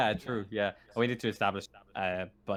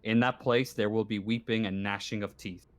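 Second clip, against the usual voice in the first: solemn scripture reading. Acted. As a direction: read it out gravely, like a verse found in blood.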